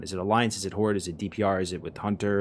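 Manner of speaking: digital, choppy connection dropouts; choppy lagging voice. Real, not acted. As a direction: voice cutting in and out. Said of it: "you're lagging a little bit".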